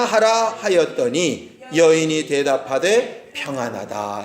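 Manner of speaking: measured, slow reading of the verse; slow scripture reading. Shown as a demonstration. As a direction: read it out slowly and solemnly, word by word. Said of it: "시작".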